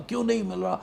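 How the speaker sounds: mock desperate call, pitch climbing far up; desperate cry. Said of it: "زور زور سے کہہ رہا ہوں". (اونچی، بے بس پکار)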